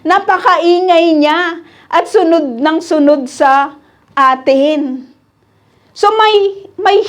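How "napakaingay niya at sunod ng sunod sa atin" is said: reading the complaint slowly. Retold or imitated. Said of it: "Sabi dito".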